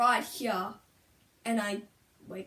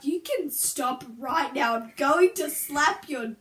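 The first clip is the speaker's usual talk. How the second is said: mock threat; 4 dB louder than usual. Daughter warning mum after being teased, mock threatening. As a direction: draw out each word as a threat.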